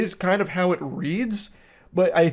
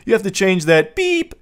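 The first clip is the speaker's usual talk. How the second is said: a higher, louder beep standing in for the swear; mock censor beep; 3 semitones higher, 4 dB louder than usual. Shown as a demonstration. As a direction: say beep in place of the swear, rising on beep. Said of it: "He's literally beeping himself".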